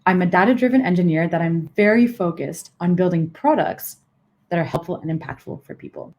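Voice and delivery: emphasize the middle, "very focused"; stress on VERY FOCUSED. Shown as a demonstration. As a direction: lean on "very focused on building products", then drop off. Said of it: "emphasizing different parts of the sentence".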